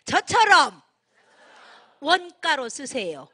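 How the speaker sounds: loud, slow lead for the crowd to echo; a leader calling out for the audience; loud call to repeat. Shown as a demonstration. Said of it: "다시 한번 저를 따라서 해보세요".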